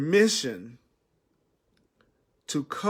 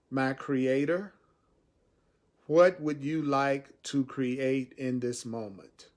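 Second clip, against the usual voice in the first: slow prayer. Shown as a demonstration. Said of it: "Stop right now and do that with me. Say".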